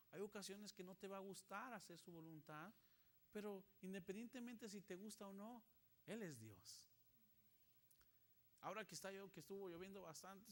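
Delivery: ordinary talk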